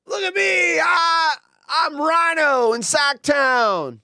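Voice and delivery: loud, high hyped radio DJ; radio host voice. Retold or imitated. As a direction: pump it up like a sports radio host. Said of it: "There's my Rhino impression".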